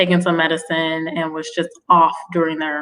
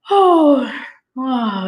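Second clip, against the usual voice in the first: imitated yawn; 6 semitones higher than usual. Imitating a candidate yawning on a phone interview, mock yawning. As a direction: act out big yawns through the words. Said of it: "and, and yawning".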